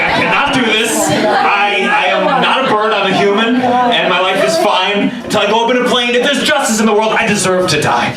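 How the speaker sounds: high, emphatic refusal; panicked protest. Retold or imitated. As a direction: plead your case in comic panic.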